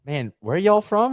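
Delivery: high, slow Alabama drawl; imitated Alabama accent. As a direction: play an Alabama boy sizing up strangers. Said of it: "some boys from Alabama".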